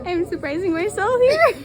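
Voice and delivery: laughing with delight. Real, not acted. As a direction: laugh through the words. Laughs at own success.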